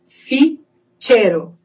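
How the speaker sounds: "Ficheiro" slowly split before a tch syllable; Spanish CH. Shown as a demonstration. Teacher models CH, slow tch in "Ficheiro". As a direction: pause in "Ficheiro", then tch. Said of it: "o C H".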